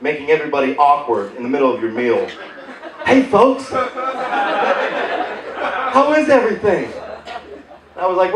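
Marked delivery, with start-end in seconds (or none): 3.1-6.9 chirpy check-in, pitched up; lightly voiced restaurant greeter, higher pitch; intrusive table visitor. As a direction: pop up at the table with a high greeting. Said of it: "pop out at your table".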